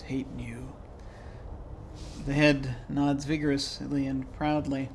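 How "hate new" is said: muttering. A narrator's reading. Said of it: "The third face mutters".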